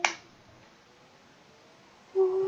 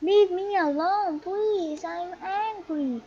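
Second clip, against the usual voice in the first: quoted angry player; 5 semitones higher than usual. Retold or imitated. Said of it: "why is someone saying".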